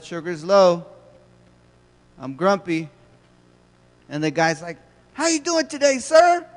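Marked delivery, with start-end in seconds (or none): 5.1-6.5 much higher, bright mock-friendly clerk voice; cheery cashier voice. Trader Joe's cashier greeting a grumpy customer, high and chipper. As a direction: chirp it like an overeager cashier.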